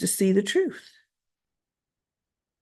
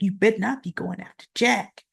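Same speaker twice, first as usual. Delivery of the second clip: a touch softer, a mild warning with a rising end on Jack; pointed warning; 4 dB quieter than usual. Retold or imitated. Wife warning Victor off Jack, mild pointed retelling. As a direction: spell out the warning fully, lightly. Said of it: "She's just looking at him like".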